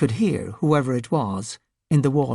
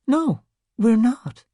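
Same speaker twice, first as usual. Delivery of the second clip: gentle; 8 semitones higher, slower than usual. Acted. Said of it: "Valkyrie said gently".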